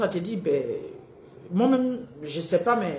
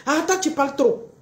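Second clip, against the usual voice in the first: mock reproach; 4 semitones higher than usual. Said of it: "Voici des phrases comme ça".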